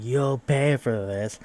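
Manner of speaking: slow, drawn-out villain's parting threat; mock threat. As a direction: stretch it out like a hammy villain. Retold threat while walking off.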